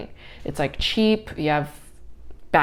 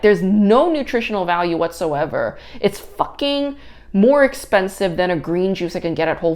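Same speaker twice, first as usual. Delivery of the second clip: outraged rant; 3 semitones higher, 4 dB louder than usual. Retold or imitated. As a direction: rant at the price like you're being robbed. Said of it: "I was like".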